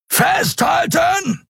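long, very high yell; roaring. A narrator's reading. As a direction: stretch the warning out. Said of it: "brüllte Keru". (langgezogener, sehr hoher Warnruf)

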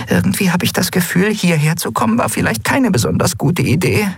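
high, small voice from hiding; very high, hushed little voice; tiny creature whispering. A narrator's reading. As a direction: whisper squeakily, like a tiny stowaway. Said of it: "wisperte Nelen in ihrem Versteck".

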